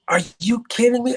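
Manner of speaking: high-pitched retold disbelief; incredulous. Friend's acted disbelief on the phone.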